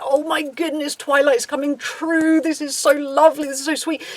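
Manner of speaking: mock gushing over a celebrity romance; lightly parodied adoring gush; gushing fans. Mimics fans' gushing over couple.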